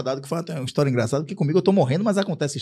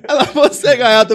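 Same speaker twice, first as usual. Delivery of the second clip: real laughter through the words, much louder; laughing; 9 semitones higher, 12 dB louder than usual. Real, not acted. Telling the nurse's joke, laughing out loud. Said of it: "Aí ela deu risada".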